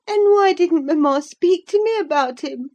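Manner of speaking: put-on high childish voice, pressing; a boy who won't let it go; insistent child. A narrator's reading. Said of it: "persevered the child".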